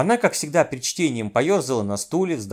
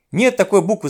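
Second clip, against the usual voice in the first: raised, higher, louder cry; exasperated shout; 5 semitones higher, 5 dB louder than usual. A narrator's reading. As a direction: shout it down in frustration. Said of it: "закричал я".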